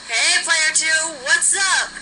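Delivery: cheery Michael. Acted. Michael answering the phone.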